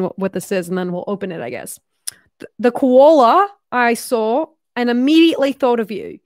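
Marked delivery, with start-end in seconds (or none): 2.4-6.2 amateur put-on Australian accent. Shown as a demonstration. Reading the note about the koala gift, put-on Australian accent. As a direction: read it out in an imitation Australian voice. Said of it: "can't even do this accent anymore".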